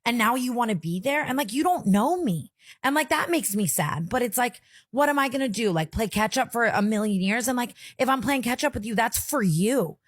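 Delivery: fighting tears while venting about her absent mom; holding back tears. Real, not acted. Tearful, upset venting about her mother. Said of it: "I'm gonna cry".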